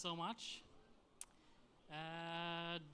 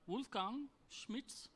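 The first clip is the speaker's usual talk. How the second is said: put-on slow, higher German-accented name call; 4 semitones higher, slower than usual. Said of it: "trying to do my German accent".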